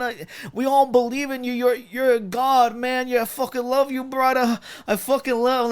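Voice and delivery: high, bro-ish bad Irish accent; mocking bad Irish accent. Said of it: "is this dude from fucking Philadelphia".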